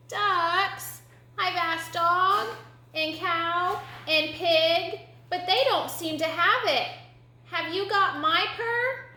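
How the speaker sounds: high, slow little kitten voice; high, drawn-out kitten; questioning kitten. Acted. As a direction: explain earnestly as a small kitten.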